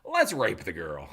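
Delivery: mock writer pitch. Mocking the show's writers.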